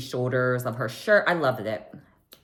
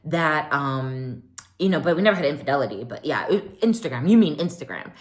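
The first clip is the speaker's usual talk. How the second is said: backpedaling; faster than usual. Retold or imitated. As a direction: scramble to clean it up. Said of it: "Kyle tries to clean it up".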